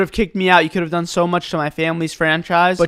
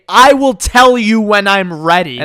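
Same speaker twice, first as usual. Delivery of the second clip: slow, cold and a bit louder; curt entitled customer; 4 dB louder, slower than usual. Retold or imitated. Entitled customer brushing off the worker, slow and cold. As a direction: lay it out like a put-upon customer.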